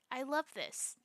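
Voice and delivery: dry mock approval; feigned enthusiasm, lightly sarcastic. Real, not acted. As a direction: say it as if you love it, meaning the opposite. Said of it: "I'm being sarcastic".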